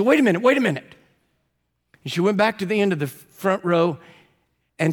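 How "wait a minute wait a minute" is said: startled. Retold or imitated. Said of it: "she looked startled".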